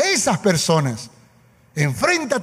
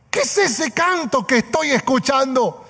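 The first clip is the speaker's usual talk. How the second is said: startled king; 5 semitones higher than usual. Retold or imitated. King hears singing from furnace.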